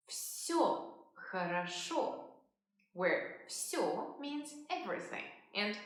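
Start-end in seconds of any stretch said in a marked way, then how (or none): 0.1-2.3 slow, careful teacher's model; slow model phrase. Shown as a demonstration. Teacher modelling the answer slowly. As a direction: say it slowly for learners. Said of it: "You might also say".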